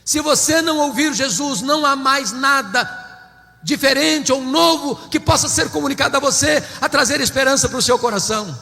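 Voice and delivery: normal talking voice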